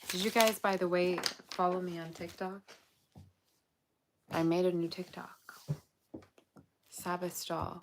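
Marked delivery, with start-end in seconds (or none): 4.3-7.8 whisper. Real, not acted. Aside about new account.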